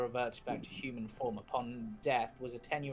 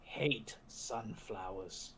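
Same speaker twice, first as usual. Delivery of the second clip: pull string toy; 3 semitones lower, 6 dB quieter, much slower than usual. Acted. Zombie doll voice.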